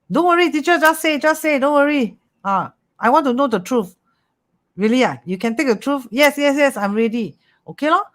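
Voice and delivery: high, eager client voice begging for the truth; eager client pleading. Retold or imitated. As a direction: play the keen client urging the teacher.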